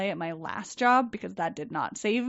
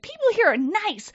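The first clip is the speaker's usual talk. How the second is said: mock brainwashed cheer; 10 semitones higher, 4 dB louder than usual. Brainwashed employee voice.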